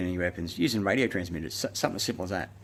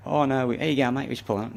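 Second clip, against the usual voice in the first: mock-friendly higher cop voice; imitating the cops, mildly higher; 6 semitones higher, 4 dB louder than usual. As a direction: put on the cops' fake friendliness. Mocking the police officers' excuses.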